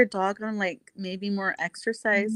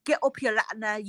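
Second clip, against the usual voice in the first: lightly mimicked challenge in a put-on accent; Ramesh. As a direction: imitate someone calling out a rival, without shouting. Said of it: "And then Ramesh was like".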